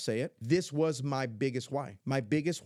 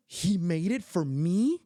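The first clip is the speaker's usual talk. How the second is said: sharp gasp, then high, slow, louder question; amazed granddaughter; 7 semitones higher, 5 dB louder, slower than usual. Retold or imitated. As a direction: imitate a child gasping in delighted disbelief. Granddaughter's amazed reaction, acted.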